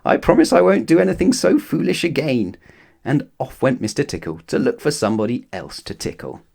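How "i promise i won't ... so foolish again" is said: laughing. A narrator's reading. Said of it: "laughed Little Miss Summersault".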